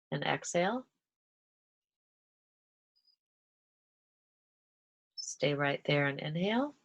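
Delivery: measured cues with long pauses for each breath; guided breathing instruction. Shown as a demonstration. Teacher guiding listeners through alternate nostril breathing, calm and measured. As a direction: lead them gently through each breath, letting inhales and exhales lift at the end.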